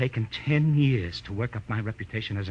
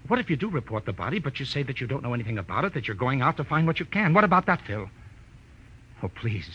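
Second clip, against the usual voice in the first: urgent pleading; 2 semitones higher than usual. Acted. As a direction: push him to agree, anxious. Desperate client pleading.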